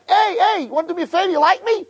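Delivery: high, lively hailing of passersby; mock calling out. Avraham at his door calling passersby inside. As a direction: call out to people walking by. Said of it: "he had to scream to everyone".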